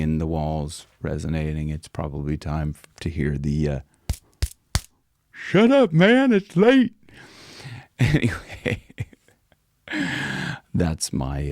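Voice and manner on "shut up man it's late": lightly voiced, higher, annoyed neighbour; mock the neighbour complaining; grumpy neighbour. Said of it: "neighbor saying that".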